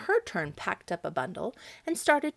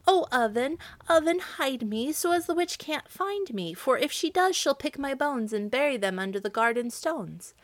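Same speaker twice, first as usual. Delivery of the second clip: high, urgent plea; young girl crying out high and pleading; frightened girl pleading; 6 semitones higher than usual. Acted. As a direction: beg the oven to hide you. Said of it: "to the oven and cried".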